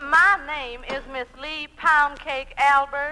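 lightly drawled Southern belle, sweet and coy; a hint of a Southern lady angling for favours; Southern belle accent. Woman asks the dancing professor for lessons, in a light Southern belle accent. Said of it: "pound cake with an accent".

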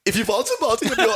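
very high camp German voice, laughing; German accent joke. Acted. Host repeats his joke, high German accent breaking into laughter.

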